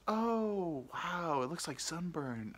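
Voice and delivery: put-on high, slow old-lady voice; imitated old lady. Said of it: "this ninety-year-old lady".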